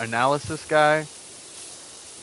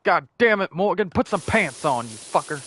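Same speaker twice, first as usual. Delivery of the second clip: mock furious cop yelling, higher and louder; angry yell; 4 semitones higher, 4 dB louder than usual. Cop catching coworker without pants, yelling angrily. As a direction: bark it at him like an annoyed sergeant.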